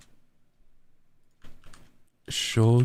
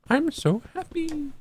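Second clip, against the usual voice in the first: high happy voice; 4 dB quieter, slower than usual. Acted. Playful voiced mood lines.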